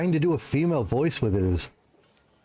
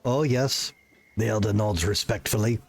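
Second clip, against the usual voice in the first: game story reading; 4 semitones lower than usual. Acted. Reads game dialogue and narration.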